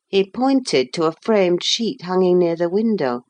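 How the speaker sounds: ordinary delivery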